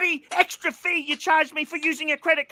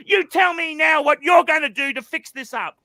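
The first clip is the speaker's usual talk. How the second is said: demanding shout; 2 semitones higher, 4 dB louder than usual. Real, not acted. Angry customer demands fix.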